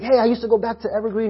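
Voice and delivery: quick, lightly imitated phone caller; a hint of the pretend pastor voice; put-on caller voice. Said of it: "I'm just pretending that he talks like that".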